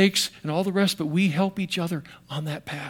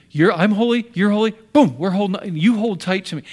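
voicing God; 3 semitones higher, 4 dB louder than usual. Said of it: "He said".

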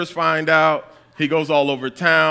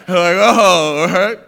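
taken aback; 2 semitones higher, 10 dB louder, much slower than usual. Retold or imitated.

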